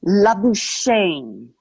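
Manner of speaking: Labuschagne said slowly as la-boo-SHAYN; anglicized pronunciation. Shown as a demonstration. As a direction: say Labuschagne the English way, ending like "shane". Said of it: "the anglicized version".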